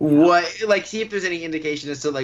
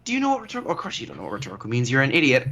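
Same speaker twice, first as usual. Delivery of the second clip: acted monologue; much faster than usual. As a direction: rant then fake-sweet apology. Quoting Paget Brewster's monologue.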